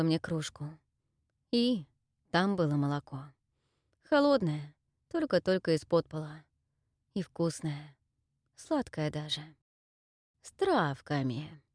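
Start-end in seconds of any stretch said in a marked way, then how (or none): 4.0-11.6 slow, low gurgling crone; gurgling witch voice. Acted. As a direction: gurgle it out slyly. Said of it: "Снова булькнула бабка". (булькающий голос старухи)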